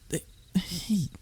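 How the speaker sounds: breathy whispered hey. Acted. Captive whispering to the dragon. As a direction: whisper it to catch attention. Captive trying to get attention.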